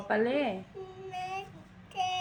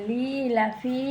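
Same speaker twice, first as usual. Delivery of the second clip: slow recitation; much slower than usual. Shown as a demonstration. Teacher models recitation slowly.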